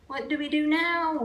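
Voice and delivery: high, loud panicky cry; a frightened pirate's yell. A narrator's reading. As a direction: cry out in the storm. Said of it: "yelled one of the pirates".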